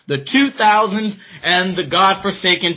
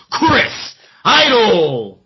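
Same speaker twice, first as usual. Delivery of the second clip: ring announcer drawl; 2 semitones higher, much slower than usual. Acted. Introducing champion, drawn out.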